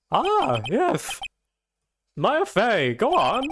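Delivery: an impatient eccentric lawyer, lightly voiced; Mad Hatter voice. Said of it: "Mad Hatter kind of thing".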